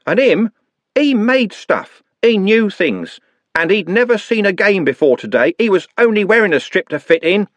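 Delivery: high, pained shouting; angry defense. A narrator's reading. Trev shouting to the gang about Nut. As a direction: defend him with outrage.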